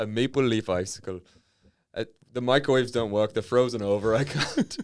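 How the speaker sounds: put-on comic Fargo accent, close to cracking up. Northerner moans about frozen microwaves, Fargo accent. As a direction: ham up the Fargo vowels. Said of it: "talk like Francis McDormand from Fargo".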